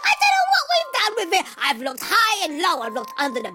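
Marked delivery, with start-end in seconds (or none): 0.1-1.4 fast, higher, half-sobbing half-laughing; hammed-up wail over the lost book; mock crying wail.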